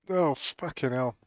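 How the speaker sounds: hiccuping between words; hiccups. Real, not acted. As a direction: talk through the hiccups. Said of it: "Hiccups, man".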